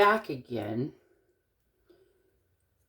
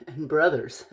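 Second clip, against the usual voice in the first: a hint of a Latina accent. Shown as a demonstration. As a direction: tack it on in a light Latina accent. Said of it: "kind of a Latina accent".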